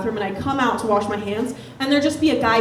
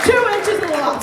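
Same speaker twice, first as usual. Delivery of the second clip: TWO inches, stressed and higher; pointed emphasis; 8 semitones higher than usual. Real, not acted. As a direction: land the joke on "Two". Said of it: "I'm saying that for the guys in the room".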